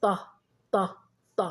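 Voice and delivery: ط said as a short, isolated "ta"; short open "a" after the emphatic t in ط; letter with fatha. Shown as a demonstration. Teacher demonstrating the letter with fatha, ط as short "ta". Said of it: "سأنطق لكم".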